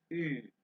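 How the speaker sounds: single held "ई" as ü; German umlaut U. Shown as a demonstration. Teacher only pronouncing the extra letter, careful demonstration. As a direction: say "ई" as a rounded German ü. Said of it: "अभी मैं सिर्फ pronounce कर रहा हूँ".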